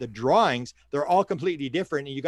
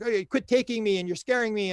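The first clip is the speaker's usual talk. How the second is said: higher-pitched mock complaint; upset protest; 6 semitones higher than usual. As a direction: imitate someone upset and pleading to stop. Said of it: "she's all upset".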